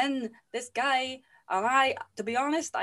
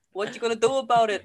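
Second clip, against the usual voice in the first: cocky cop taunt; 6 dB louder, faster than usual. Acted. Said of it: "he's all".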